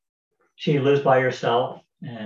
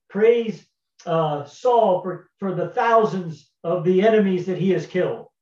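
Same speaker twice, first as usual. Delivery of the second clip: high, louder chant of praise; crowd praise; 4 semitones higher, 4 dB louder than usual. Retold or imitated. People of Israel hailing King Saul, high praising chant. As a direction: call it out like a cheering crowd.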